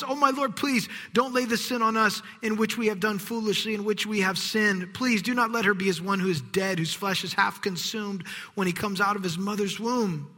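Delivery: Aaron begging Moses, pleading. Acted. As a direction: beg for mercy for your sister.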